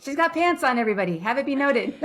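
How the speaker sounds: high, loud teasing proclamation; playful announcement. Real, not acted. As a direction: announce it to everyone like big news.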